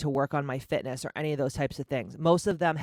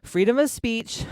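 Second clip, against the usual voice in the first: emphatic; 7 semitones higher, 6 dB louder than usual. Real, not acted. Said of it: "This is my fucking podcast".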